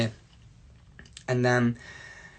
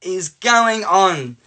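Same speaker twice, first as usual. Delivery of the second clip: high "what", then drawn-out words; baffled dad; 5 semitones higher, much slower than usual. Retold or imitated. Dad to son just home from school, baffled. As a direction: stretch out a dad's bewildered question. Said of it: "he wasn't even angry".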